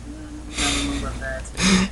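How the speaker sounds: high, drawn-out sceptical hedge; mock doubt. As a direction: stretch it out high, acting unconvinced. Mock doubtful reply to studio's plan.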